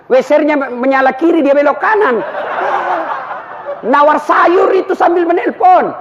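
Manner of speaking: exasperated mock shout. Mocking women on the road.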